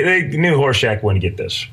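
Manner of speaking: ordinary talk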